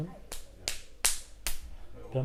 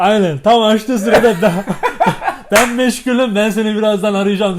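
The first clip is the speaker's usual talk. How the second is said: helium; 11 dB louder than usual. Real, not acted. Helium instructions, laughing.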